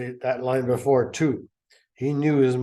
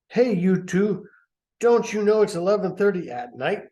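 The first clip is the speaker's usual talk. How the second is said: scolding grandma; 6 semitones higher, 5 dB louder than usual. Acted.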